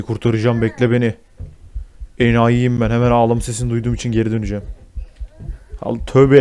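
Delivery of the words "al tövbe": louder jolt of fright; startled gasp. Real, not acted. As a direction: blurt at the scare. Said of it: "yine aynı şeyden korktum".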